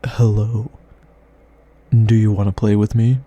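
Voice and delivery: hammed-up loud teasing read. Shown as a demonstration. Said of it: "read it and be like".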